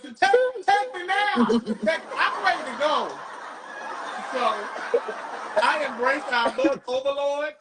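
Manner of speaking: normal talking voice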